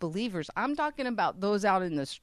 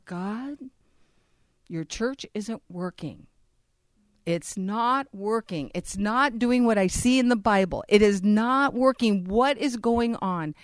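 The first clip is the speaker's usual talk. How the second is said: retold yelling at God; 3 semitones higher, 5 dB louder than usual. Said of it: "kinda yelling at the Lord".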